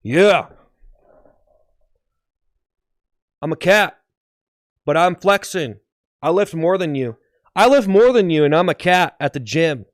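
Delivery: punchy, hammed-up boasting; flexing gym cat. Fit cat brags to gym-goers, cocky. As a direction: show off like a muscle-bound cat. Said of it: "A very fit cat flexing at the gym".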